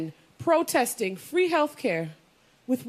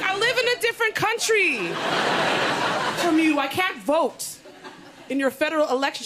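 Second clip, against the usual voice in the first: exasperated retort; 3 semitones higher than usual. Retold or imitated.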